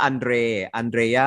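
อันเดร with an "e" vowel and a "dr" cluster, "an-DRE"; spelled-out pronunciation. Shown as a demonstration. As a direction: show the "dre" sound in อันเดร. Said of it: "อ่าเป็นสระเอดอเด็กรอเรือฮะ". (ออกเสียง อันเดร เน้นสระเอ ควบ ดร)

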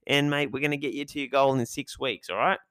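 hammed-up bro trainer hyping a new client; lightly voiced Aussie gym bro; gym trainer impression. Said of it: "He's like".

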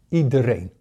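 Iedereen said firmly, with a falling stress. Shown as a demonstration. Coach stressing that Iedereen includes every viewer, with firm stress. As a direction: lean on Iedereen to say it counts for all. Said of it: "met nadruk op iedereen".

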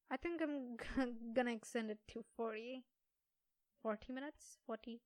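tripping over the words with false starts; stumble, then retry the word questioningly; stumbling on words. Real, not acted. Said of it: "I do stumble on some words".

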